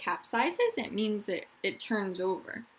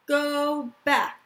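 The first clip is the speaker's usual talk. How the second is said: loud, high barked command; angry guard shout; 6 semitones higher, 7 dB louder than usual. Acted. Angry guard turns back the family at the border, shouting. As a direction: yell it like a border guard stopping them. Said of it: "shouts an angry guard".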